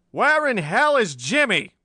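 high, loud, drawn-out bellow; wicked roar. A narrator's reading. Angry chief arriving, hunting for Jimmy, wicked roar. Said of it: "roared a wicked voice".

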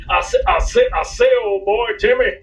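lightly voiced blustery southern cartoon rooster. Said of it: "mine sounds like a cartoon character".

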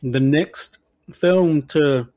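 talking while eating candy; slow words around a mouthful of candy; mouth full. Real, not acted. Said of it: "sorry, I'm eating candy".

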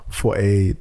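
high, slow, wailing outrage; mock-anguished eighty pounds; outraged disbelief. Real, not acted. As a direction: cry out at the price. Outraged at Uber price.

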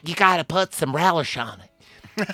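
lightly hammed-up high character voice; high mock voice. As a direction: toss it off in a high silly voice. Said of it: "and then Chaz goes".

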